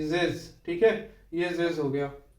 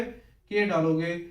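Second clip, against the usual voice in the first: slow dictation; much slower than usual. Shown as a demonstration. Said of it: "circle एस आप डालोगे".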